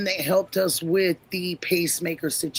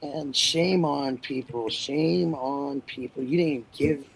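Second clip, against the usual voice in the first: somber scolding; 3 semitones lower, 4 dB quieter, slower than usual. Real, not acted. Scolding people who neglect children.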